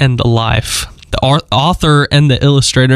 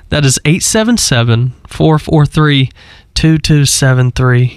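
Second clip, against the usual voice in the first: phone number read out a little slower. Shown as a demonstration. Host repeats care line number for listeners, a little slower. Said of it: "I'll repeat it just a little slower for you".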